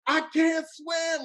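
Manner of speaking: high, slow, stretched-out mock cry; drawn-out falsetto-like plea; retold screaming. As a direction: imitate a desperate high wail, held back in volume. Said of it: "I just started screaming".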